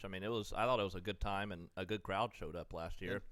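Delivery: talking through a mouthful; words round a bite of food; mouth full. Real, not acted. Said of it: "talking with your mouth full".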